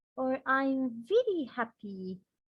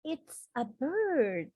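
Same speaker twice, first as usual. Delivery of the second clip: slow, slightly raised surprise; surprised exclamation; 3 semitones higher, slower than usual. Shown as a demonstration. Teacher showing surprise at a bird, mild surprise. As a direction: discover a bird indoors. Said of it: "more exclamation sentences".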